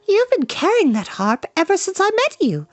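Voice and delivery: put-on high, sharp young girl's voice; a princess needling the bard; scolding girl. Eilonwy scolds Fluter.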